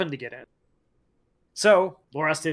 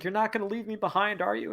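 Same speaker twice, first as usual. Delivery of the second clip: higher, softer pleading question; mock upset; 5 semitones higher, 4 dB quieter than usual. Nyrelle waking up and asking Lorath, mildly upset plea. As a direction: plead lightly, as if worried. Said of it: "she's very upset".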